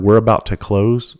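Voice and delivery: slow, drawn-out "close" with a rising end; how he heard it. Retold or imitated. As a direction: stretch it out as if hearing the insult beneath. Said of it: "And I heard".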